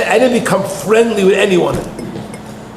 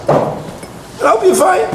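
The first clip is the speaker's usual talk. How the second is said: higher, slow, sugary mock blessing; mock sweet wish; 10 semitones higher, much slower than usual. Woman wishes the groom well, slow high mock sweetness. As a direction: stretch the wish out sweetly, faking it. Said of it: "And she goes".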